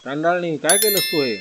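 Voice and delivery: furious yell at the doctor she blames; angry shout. A narrator's reading. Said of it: "तिला बघताच Mrs Dandekar ओरडल्या". (रागाने ओरडणे)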